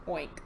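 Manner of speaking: short, low, soft oink; pig oink. Pretend. Showing children what pigs say, low oink. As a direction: grunt a little oink. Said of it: "pigs go".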